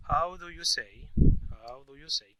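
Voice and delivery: drawn-out quiz prompt in English; slow English prompt. Shown as a demonstration. Teacher asks students, slowly prompting in English. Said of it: "¿cómo se dice?".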